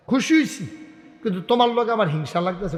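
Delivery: lightly acted jealous father; emperor's jealous reply. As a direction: voice the old father's envy, starting high.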